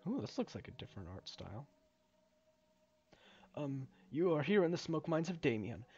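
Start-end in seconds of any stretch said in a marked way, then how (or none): 3.5-5.8 lightly voiced game character explaining the job; a hint of a halting, polite foreman; hesitant mine worker. Reads mine worker's explanation aloud.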